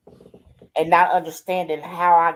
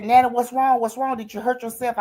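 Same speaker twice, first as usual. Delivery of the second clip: put-on higher, worried child's voice; alarmed granddaughter; 6 semitones higher than usual. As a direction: sound frightened for Nana. Granddaughter hears her scream on FaceTime.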